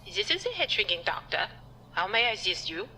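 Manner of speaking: put-on a doctor faking a German accent to sound serious. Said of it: "I've been brushing up on my German accent".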